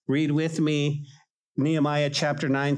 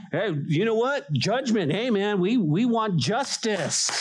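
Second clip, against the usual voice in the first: mock demand for justice; 6 semitones higher than usual. Congregation voiced demanding judgment.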